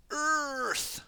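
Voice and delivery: high shouted element call; battle cry. Acted. Cole calling his element in the spell, high shout. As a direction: bellow the element name. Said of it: "that's what Cole says".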